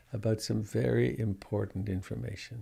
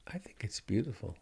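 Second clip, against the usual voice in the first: whispering; 6 dB quieter than usual. Real, not acted. Whispered praise.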